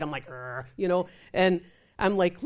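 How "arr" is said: low, soft growl of frustration; bottled-up grumble, acted out; mock angry growl. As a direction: growl as if mad on the inside. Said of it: "I'm mad on the inside".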